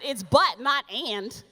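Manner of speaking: but punched, and tossed off; stress on but. Real, not acted. Correcting agent, stressing but over and. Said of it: "I said".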